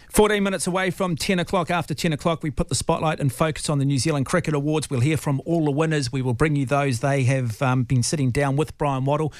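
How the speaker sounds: upbeat broadcaster link after the interview; radio announcer read. Acted. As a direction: announce what's coming up like a radio host. Host switches to on-air announcement.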